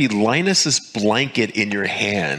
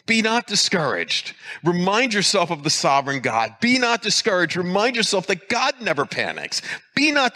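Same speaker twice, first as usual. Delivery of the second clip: rising exhortation; 6 semitones higher than usual. Real, not acted. Preacher urging the congregation.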